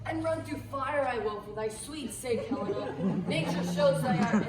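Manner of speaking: loud, rapturous declaration; ardent outburst. Acted. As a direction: burst out in sudden love. Lysander waking, enchanted.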